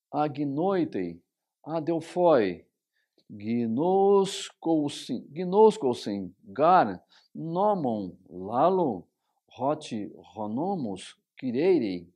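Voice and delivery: slow, syllable by syllable Greek reading; reading Greek aloud. Shown as a demonstration. Teacher reading Romans in Greek to students, slowly. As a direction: read the Greek out slowly for the class. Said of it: "têm o texto em grego".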